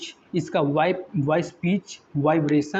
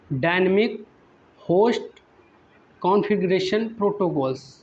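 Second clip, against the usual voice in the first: each word set apart with pauses, for students to write down; teacher dictates dynamic, host, configuration slowly, word by word; slow dictation. Shown as a demonstration. Teacher dictating the full form to students, slow and spaced. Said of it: "आप लिख लीजिए".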